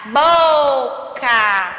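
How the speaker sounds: BOCA with a long, forceful BO; stressed syllable exaggerated. Shown as a demonstration. Teacher repeating for pupils, BO heavily stressed in "Boca". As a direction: lean hard on BO in "Boca". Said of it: "É o bo, né, gente, que eu falo mais".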